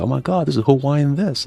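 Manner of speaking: high mock amazement; trolling. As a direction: imitate friends gushing to tease. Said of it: "I didn't troll him, but everyone else would".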